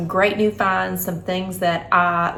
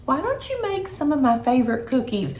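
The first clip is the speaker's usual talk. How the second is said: husband voice; 6 semitones higher than usual. Retold or imitated. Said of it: "my husband said".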